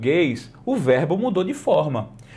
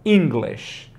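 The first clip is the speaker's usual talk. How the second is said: I speak English said slowly and clearly; slow model sentence; much slower than usual. Shown as a demonstration. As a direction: spell out I speak English for a learner. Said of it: "E aí ela vai falar".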